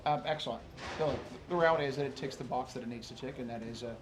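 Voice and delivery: thick New Zealand accent; broad kiwi accent. Real, not acted. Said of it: "the thick New Zealand accent".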